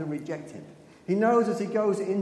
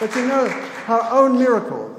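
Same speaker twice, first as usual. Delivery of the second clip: "own" pushed much higher and louder; stress on own; 7 semitones higher, 10 dB louder than usual. Real, not acted. Preacher stressing to the church that the miracle wasn't enough, loud. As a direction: punch "own" in "her own miracle".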